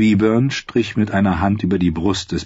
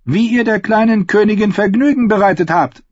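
high, emphatic royal demand; commanding; 10 semitones higher, 3 dB louder than usual. A narrator's reading. Queen demands the singer's confession, commanding. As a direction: order him to confess. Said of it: "befahl sie".

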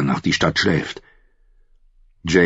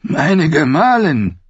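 higher, slow, strained croak; 11 semitones higher, 4 dB louder, slower than usual. A narrator's reading. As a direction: force it out hoarsely. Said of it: "krächzte er". (heiser gekrächzt, langsam)

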